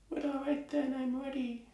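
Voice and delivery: high, very soft, far-away tailor; distant tiny voice. Acted. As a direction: call faintly as if from a long way off. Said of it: "in the distance".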